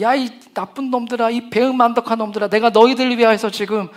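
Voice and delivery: loud scolding of ungrateful followers; Jesus imagined scolding his people, loud and angry; angry rebuke. Pretend. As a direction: berate them with hurt fury. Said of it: "저 같으면은 정말".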